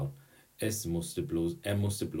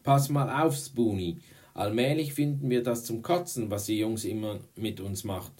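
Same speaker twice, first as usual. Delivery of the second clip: loud, raised, fed-up declaration; angry warning; 5 semitones higher, 7 dB louder than usual. A narrator's reading. Girl declares war on the boys, angry warning. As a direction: lay down the law to him.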